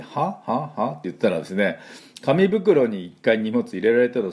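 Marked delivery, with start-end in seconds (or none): 0.0-0.9 baffled. Retold or imitated. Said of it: "最初わけわかんなくて".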